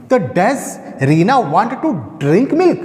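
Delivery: slow question read with a rising end on milk; a teacher modelling a question; question tune. Shown as a demonstration. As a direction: ask "milk?" slowly with a lift at the end. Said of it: "question आपका sound होना चाहिए".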